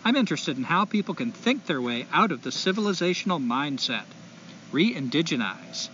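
put-on light SoCal accent reading a letter; California accent. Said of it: "I'm gonna try to do a California accent".

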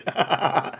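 short, soft imitated laughter. Storyteller acting out friend's amusement at Tom, imitated laugh. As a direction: mimic a friend cracking up. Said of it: "he starts laughing".

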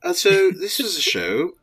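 Taika-style Kiwi accent, lightly put on; New Zealand accent. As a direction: fake a loose New Zealand accent as the director. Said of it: "this was my New Zealand, uh, accent".

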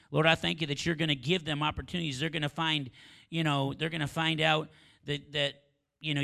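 booming prayer, full voice; loud. Acted. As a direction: lift the prayer up loud and strong. Prayer peaks loudest.

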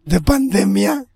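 real hoarse throat. Real, not acted. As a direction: talk through a hoarse throat. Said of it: "es que ando ronco".

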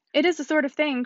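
understated indignant emphasis; emphatic. A narrator's reading. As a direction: say it with a bit of emphasis. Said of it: "cried Missus Elton emphatically".

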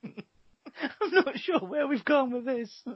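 squawky cartoon duck voice, slow; high squeaky duck voice.

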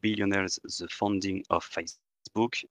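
English titles with a strong French accent. Real, not acted. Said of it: "Mon accent anglais est parfait".

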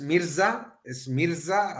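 "Mirza" slowly, with an s sound for the z; "Mirza" drawn out, pronounced MEER-sa; demonstrated pronunciation. Shown as a demonstration. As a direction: show how "Mirza" is said, z as s. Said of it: "así se pronuncia".

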